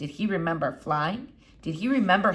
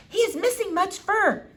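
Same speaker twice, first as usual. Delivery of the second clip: lightly voiced elderly foreign lady, higher; a hint of an old eccentric doctor; Doctor Measham; 12 semitones higher than usual. A narrator's reading. Old doctor peering at the squirrel, lightly foreign.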